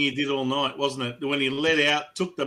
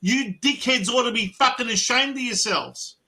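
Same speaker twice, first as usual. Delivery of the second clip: stern coach rant; 5 semitones higher than usual. Retold or imitated. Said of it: "and say".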